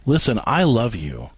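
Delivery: slow, gentle reassurance; slow down and let her feel you mean it; empathizing. Shown as a demonstration. Husband slowly reassuring his upset wife, gently. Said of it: "You empathize by saying".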